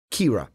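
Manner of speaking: "Qi'ra" said as KEE-ruh; low, careful "Qi'ra", KEE-ruh; pronunciation shown. Shown as a demonstration. Co-host confirming a name's pronunciation, "Qi'ra" as KEE-ruh. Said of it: "it says here it's pronounced".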